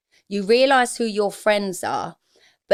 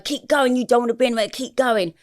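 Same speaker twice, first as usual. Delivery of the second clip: inner voice; 4 semitones higher than usual. Retold or imitated. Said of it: "There's a voice going".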